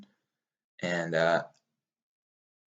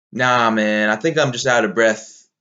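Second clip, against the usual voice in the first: louder, brushing off the doubt; dismissive self-talk; 6 dB louder than usual. Retold or imitated. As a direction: talk yourself out of it, firmly. Answers own doubts, retold self-talk.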